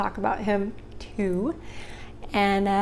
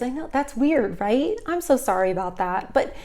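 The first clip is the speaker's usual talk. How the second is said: friendly clerk; 4 semitones higher than usual. Shown as a demonstration. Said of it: "that's what I would have said".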